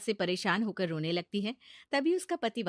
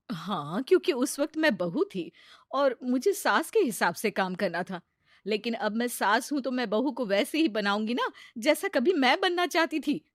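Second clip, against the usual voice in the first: firm mother-in-law; 3 semitones higher, 5 dB louder than usual. Acted.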